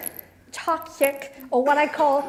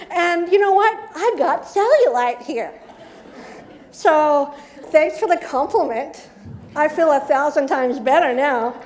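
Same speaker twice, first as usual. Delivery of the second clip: mocking inner voice; 2 semitones higher than usual. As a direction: scoff at the compliment with a laugh. Mocking inner voice answers compliment.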